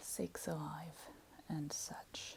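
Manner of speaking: quiet, hushed voice. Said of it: "[Very softly]".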